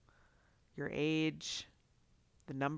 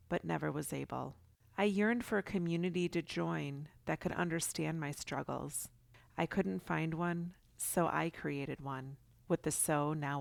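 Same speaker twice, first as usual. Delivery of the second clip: louder scripted intro read; podcast intro read; 4 dB louder than usual. Acted. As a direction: read it like a show opener.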